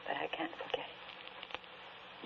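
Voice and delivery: slow voiceless whisper, pitch lifted; a slow broken whisper; anguished whisper. Acted. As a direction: let the voice collapse into a whisper. Widow insisting she cannot forget.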